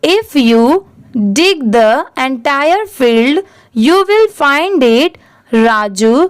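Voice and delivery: slow, deliberate read-aloud of an English story. Shown as a demonstration. Teacher reading a story slowly to pupils. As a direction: read each phrase slowly for learners.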